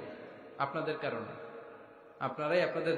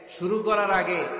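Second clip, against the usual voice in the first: tag; 2 semitones higher, 5 dB louder, slower than usual. Acted. Husband voiced in joke story.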